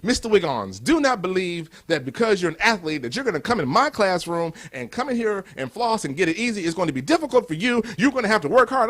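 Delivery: a stern English professor putting the new athlete in his place; mock-stern English teacher lecture. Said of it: "He had that accent".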